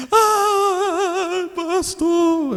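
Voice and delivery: hammed-up crying sister calling the pastor; imitating crying woman. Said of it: "eu não sei imitar ela". (imitando a irmã chorando, voz bem aguda)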